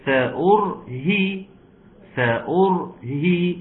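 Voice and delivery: slow tajweed demo of سأرهي; kasra on ha. Shown as a demonstration. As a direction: stretch سأرهي to show the kasra under the ه. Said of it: "اظهار الكسرة في الهاء".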